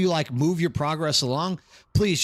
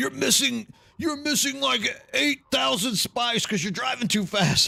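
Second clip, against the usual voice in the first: mock high, heated scolding yell; 8 semitones higher than usual. Retelling someone who jumped on their video: imitating someone yelling. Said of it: "started yelling at me like".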